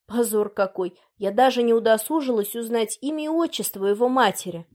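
usual speaking voice

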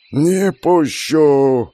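high, long-drawn wail; wailing mother barring the way. A narrator's reading. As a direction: stretch the refusal into a slow howl. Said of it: "голосила Урсула".

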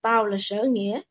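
quiet, measured menace; stressing each word. A narrator's reading. Attacker names himself to his captive, stressing each word. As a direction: state it low-key, word by deliberate word. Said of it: "gằn từng chữ".

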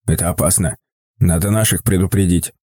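put-on low, hushed old man; wary old man, voice down. A narrator's reading. Old man urges caution. (низкий приглушённый голос старика)

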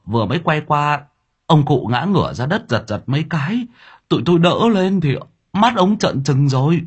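rising, increasingly alarmed telling; shaken worker. Acted. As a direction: recount the fall with growing fright. Worker recounts the collapse.

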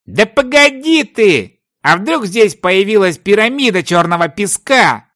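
high-pitched, eager plea to wait; excited protest. A narrator's reading. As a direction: beg him to hear your theory. Treasure hunter protests excitedly. (взволнованное возражение)

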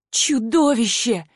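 slow, understated sob on the word; a touch of a tearful cry; sobbing out. A narrator's reading. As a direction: captive girl sobbing at her captor, mildly. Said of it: "всхлипнула я".

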